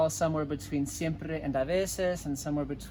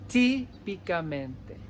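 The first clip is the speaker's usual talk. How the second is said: Típicamente said a little slower, each syllable clear; careful repeat; slower than usual. Shown as a demonstration. Teacher repeating for learners, carefully. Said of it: "I'll say it one more time".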